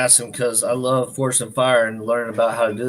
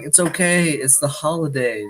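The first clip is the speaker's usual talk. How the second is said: slow, softer, shrugging it off; mock carefree excuse; 4 dB quieter than usual. Imitating someone excusing holiday excess, slow and soft. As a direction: drawl the excuse out lazily. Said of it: "You're like".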